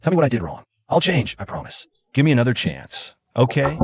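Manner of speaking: pleading, voice rising; begging an ex back. Acted. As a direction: plead desperately to be forgiven. Begging girlfriend not to leave.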